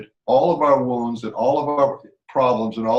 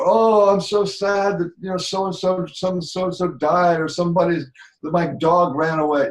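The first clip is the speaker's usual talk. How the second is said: mock sad; 5 semitones higher, 3 dB louder than usual. Shown as a demonstration. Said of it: "Your voice changes".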